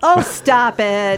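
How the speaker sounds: very slow, drawn-out oh stop it; mock scolding. Real, not acted. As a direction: stretch it out, teasing. Teasing co-host.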